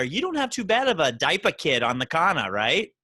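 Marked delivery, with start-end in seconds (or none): 1.1-2.5 put-on Massachusetts accent; New England accent. Host teases New England guest about beer, imitated New England accent. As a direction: drop the R's like a New Englander. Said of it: "That accent was perfect".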